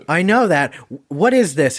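mock annoyance at the waiter; exasperated diner. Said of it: "And he goes".

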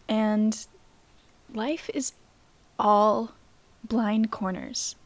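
slightly hoarse, voice giving out; tired, hoarse voice; losing voice. Real, not acted. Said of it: "I'm losing my voice a little bit".

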